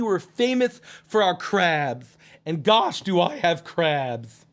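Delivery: lisping goofy voice, lightly put on; goofy character, joking. Character jokes about Maryland crabs, cheeky goofy voice. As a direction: play it as a cheeky goofball.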